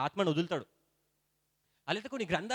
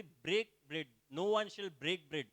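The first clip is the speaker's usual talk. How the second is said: slow verse reading; much slower than usual. Acted. Reads English verse slowly.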